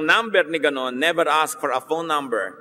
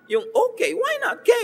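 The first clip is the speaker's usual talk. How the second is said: a much higher, shouted "why not K?"; exasperated shout. Real, not acted. Preacher to the congregation about texting just K, exasperated shout. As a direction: throw the question up in disbelief.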